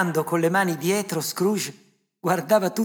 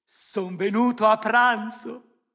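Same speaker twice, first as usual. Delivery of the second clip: raised, hopeful voice, building louder; high-pitched, excited plea; eager appeal; 6 semitones higher, 6 dB louder, slower than usual. A narrator's reading. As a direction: ask to be welcomed, eagerly. Scrooge hopefully invites himself to dinner.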